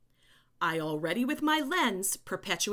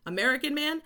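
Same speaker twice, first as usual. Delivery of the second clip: higher-pitched, set-off words as if in quotes; air quotes; 6 semitones higher than usual. Real, not acted. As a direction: put audible quote marks round it. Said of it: "I did quotes, air quotes there".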